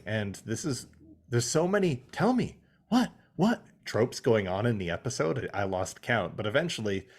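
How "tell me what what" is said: higher mocking plea; mock pestering. Mocking a trope to co-host, pitched-up pleading. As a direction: parody the needy crew. Imitating the trope mid-sentence.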